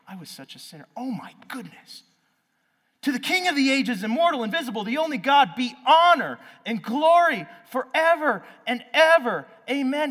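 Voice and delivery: high, loud ecstatic praise; joyful outburst. Retold or imitated. Paul on the street, shouting high joyful praise. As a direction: burst out in overflowing joy. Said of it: "I just imagine him walking down the street like".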